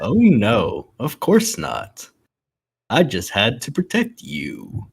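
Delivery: lightly voiced slow, drawn-out character; a hint of a stately voice, drawing words out; slow, measured delivery with a touch of put-on gravity; George Takei. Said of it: "Yes, George Takei".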